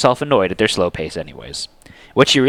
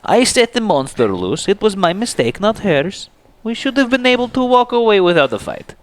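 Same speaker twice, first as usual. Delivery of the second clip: calmer voice; 11 semitones higher than usual. A narrator's reading. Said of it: "sounding a little less emotional than the other two".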